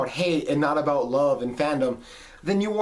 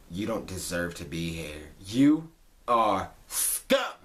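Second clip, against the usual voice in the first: mock gatekeeper; 10 semitones lower, 4 dB quieter, slower than usual. Mocking gatekeeping fan.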